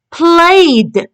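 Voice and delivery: teacher's model "Played", one syllable closing on d; final d sound. Shown as a demonstration. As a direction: say "Played" carefully with ed as d. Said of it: "The d sound".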